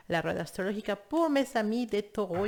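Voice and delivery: la rueda astrológica in Spanish, rest in French; Spanish words. Shown as a demonstration. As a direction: switch to Spanish for the phrase. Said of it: "Je vais le dire en espagnol".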